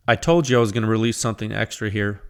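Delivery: usual speaking voice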